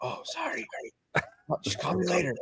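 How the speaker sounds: soft, barely voiced whisper. Speaker retells a guy who always whispered back on calls, imitating Kenny whispering back. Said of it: "my one guy would always whisper back".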